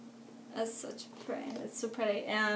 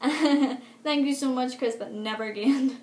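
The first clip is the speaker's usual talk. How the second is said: laughing; 2 semitones higher, 6 dB louder, slower than usual. Real, not acted. Laughing thanks after rough ringside.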